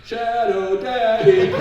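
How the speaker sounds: high, drawn-out crowd holler; imitated cheer. Recruiters hailing him in the hallway, imitated cheer. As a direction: call it out slowly like a cheering fan. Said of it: "people have started cheering back to me".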